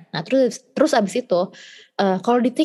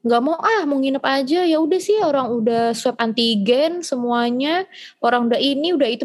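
stubborn refusal; 4 semitones higher than usual. Retold or imitated. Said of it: "gue membangkang lah sebagai anak".

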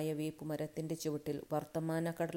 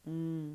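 affirming hum. A narrator's reading. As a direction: answer with just a hum. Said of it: "കാശിരാജാവ് മൂളി". (സമ്മതിച്ചുള്ള മൂളൽ)

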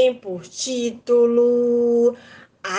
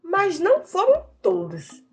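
put-on lively storyteller voice for kids; reading to children; 2 semitones higher than usual. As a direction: tell the tale to children with wonder. Tells a folk tale to children.

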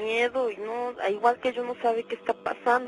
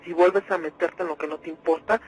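low, menacing threat; possessing demon voice; 6 semitones lower than usual. Acted. The demon threatens the radio host, menacing. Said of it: "hablaba con voz de hombre".

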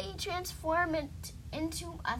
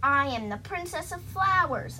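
higher, louder proud proclamation; announcing; 4 semitones higher, 5 dB louder than usual. Acted. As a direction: proclaim your royal title to all. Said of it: "I announced".

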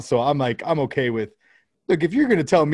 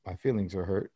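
mock hurt; 5 semitones lower, 10 dB quieter than usual. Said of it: "And I was like".

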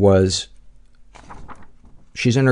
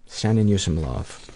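much softer, tender "sending"; 6 dB quieter than usual. Real, not acted. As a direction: hush it, lovingly. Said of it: "Am I being cheap with the love tonight".

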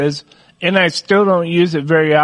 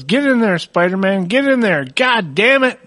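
a hint of a frustrated toddler, pitched up; little daughter forcing the toy in; toddler frustration; 4 semitones higher than usual. Toddler daughter cursing at a Spider-Man toy, mildly frustrated. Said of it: "she goes".

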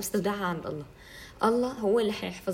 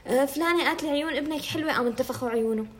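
mock gossiping woman; 6 semitones higher than usual. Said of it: "أنا كتير نماذج شايفتهم".

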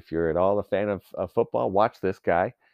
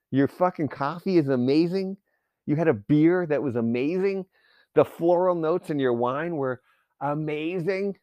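mocking incredulity; 6 semitones higher than usual. Mocks people who overuse amazing.

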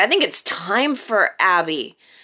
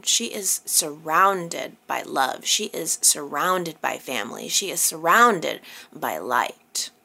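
soft reassurance; 4 semitones lower, 4 dB quieter than usual. Acted. Recapping Sharon's dream, soothingly reassuring viewers, hushed. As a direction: ease her down gently, fading to a whisper. Consoling recap ending in comfort.

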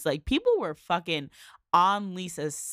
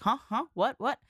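imitating a flustered, higher-pitched panic; frantic panic; 8 semitones higher than usual. Friends panicking as the husband may walk in, mock flustered panic. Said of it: "but they're just so frantic".

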